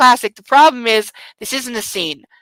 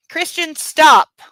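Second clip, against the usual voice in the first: pleading heroine; 7 semitones higher, 4 dB louder, slower than usual. Acted. Heroine begging him to stop.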